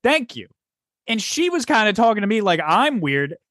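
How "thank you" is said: acting out a fed-up rant, not shouting; exasperated rant. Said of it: "I started to get into the mood".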